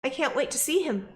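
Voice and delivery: put-on southern accent. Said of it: "I'm doing a slightly southern accent".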